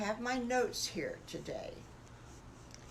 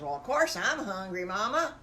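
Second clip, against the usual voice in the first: louder, matter-of-fact little pig; a bit louder, as if it's obvious; louder piglet; 6 dB louder than usual. Acted. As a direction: piglet insisting he's hungry. Third piglet voiced.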